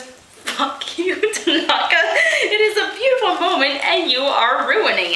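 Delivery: laughing. Real, not acted. Reader laughs reading the dialogue.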